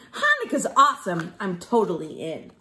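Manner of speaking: quick, giggly delight; fast happy chuckle, a touch hammed-up; laughing with a grin. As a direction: laugh through it like a thrilled elf. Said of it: "said with a grin".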